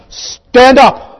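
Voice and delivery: high, commanding shout; loud, high pulpit command; shout of Jesus. Acted. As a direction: bellow it as an order to wake the dead. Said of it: "the shout of Jesus".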